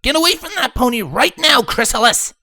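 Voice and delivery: high, loud furious command; angry shout. A narrator's reading. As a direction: order her away, furious. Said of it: "Rainbow shouted".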